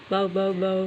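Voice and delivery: mild "bow bow" barking; imitated dog bark. Shown as a demonstration. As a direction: imitate a puppy without force. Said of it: "കുക്കുപ്പട്ടി എങ്ങനെയാ കുരയ്ക്കുന്നേ". (പട്ടിയുടെ കുര അനുകരണം)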